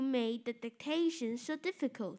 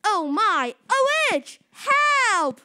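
high, loud panicked cry; boy screaming at sudden witch; frightened scream; 6 semitones higher, 11 dB louder, slower than usual. Acted. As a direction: shriek for help in terror. Boy terrified by fairy.

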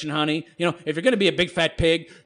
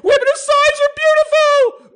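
"Women of size are beautiful!" shrieked much higher and louder; mock screech; 8 dB louder than usual. Vlogger voicing an all-caps commenter, mocking screech. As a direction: screech it in outrage. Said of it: "I'm gonna have to screech".

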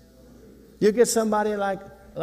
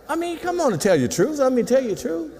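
pleading exhortation; 8 semitones higher than usual. Acted. Urging the congregation, pitched higher.

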